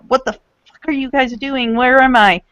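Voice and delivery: mock-furious rant, moderately heated; angry flurry. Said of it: "flurry of really angry Japanese".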